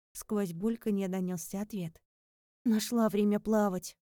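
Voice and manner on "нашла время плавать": plain reading voice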